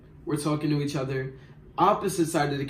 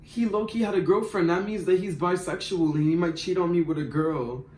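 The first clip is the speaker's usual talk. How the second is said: emotional friend; 3 semitones higher than usual. Retold or imitated. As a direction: imitate the worked-up roommate, pitched up. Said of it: "So Seinfeld got all emotional".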